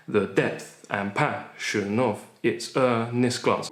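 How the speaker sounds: "The depth and passion of its earnest glance" slowed, stresses marked; scanned line. Shown as a demonstration. Teacher rereading the line to show iambs. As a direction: read it slowly with the beat. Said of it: "an iamb is".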